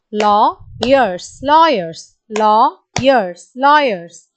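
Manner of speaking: lawyers chanted in beats, LAW and YERS split; each lawyers said with clapped syllables; clapping syllables. Shown as a demonstration. Teacher chanting syllables for clapping. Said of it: "this is a two syllable word".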